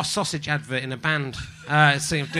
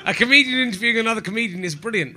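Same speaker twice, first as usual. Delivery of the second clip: laughing; 4 semitones higher than usual. Real, not acted. Laughing while reading bad review.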